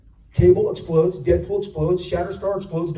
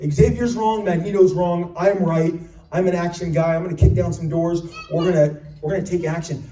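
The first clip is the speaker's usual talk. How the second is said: loud, punchy action-hero declaration; Cable's voice; 4 dB louder than usual. Retold or imitated. Cable telling the X-Men he's right, firm and loud. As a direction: bark it like a man of action. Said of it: "A guy who comes in and says".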